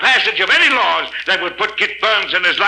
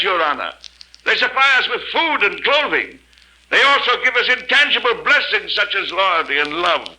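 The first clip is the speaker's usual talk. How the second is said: impassioned plea. Acted. Berg to the courtroom, earnest rising plea. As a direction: plead to their conscience.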